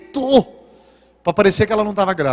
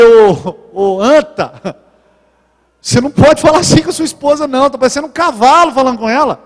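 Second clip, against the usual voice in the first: loud mock scolding; 3 semitones higher, 4 dB louder than usual. Pastor scolds a blunt husband.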